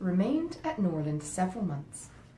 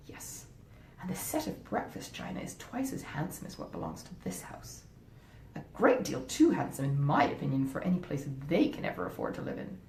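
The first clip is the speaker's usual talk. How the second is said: scheming wife. Acted. Wife talking her husband out of helping his stepmother, coaxing. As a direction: talk him out of the money, sweetly persuasive. Fanny's final argument.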